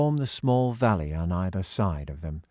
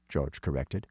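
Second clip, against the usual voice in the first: ordinary delivery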